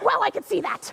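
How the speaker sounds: loud, furious, angry yelling. Answering her mate in a sketch, yelling angrily at him. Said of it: "now you're yelling at me".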